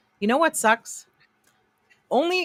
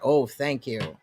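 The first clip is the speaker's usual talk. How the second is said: flat, dismissive oh thank you; mock his brush-off thanks; mimicked curt thanks; 3 semitones lower, slower than usual. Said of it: "Did you hear how he said that?".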